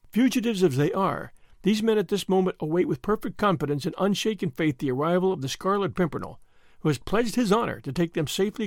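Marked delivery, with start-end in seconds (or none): none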